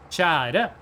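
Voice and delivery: Kjære with the pitch going up at the end; Kjære said the Oslo way, rising; capital pitch accent. Shown as a demonstration. Norwegian speaker demonstrating the Oslo pitch accent on a word. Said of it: "it goes up in the capital".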